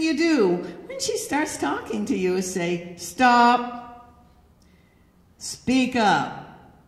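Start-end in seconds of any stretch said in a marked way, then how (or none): 3.0-6.8 loud, abrupt order; shouted command. Shown as a demonstration. Man ordering her to speak up, in a loud command. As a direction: call it out forcefully, each word on its own. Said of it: "Do not shout".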